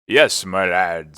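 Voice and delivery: slow, loud landlord's greeting; drawn-out, lightly voiced sailor; hearty old seaman. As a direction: greet the lad in a big voice.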